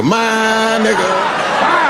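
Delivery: high, hyped bro greeting; buddy greeting. Retold or imitated. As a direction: greet royalty like your homeboy. Greeting Prince Charles like a buddy.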